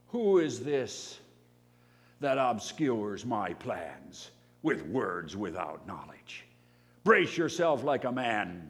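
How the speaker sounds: slow, booming divine rebuke; mocking God voice. God from the storm mocking Job, slow loud rebuke. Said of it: "as the divine mocker".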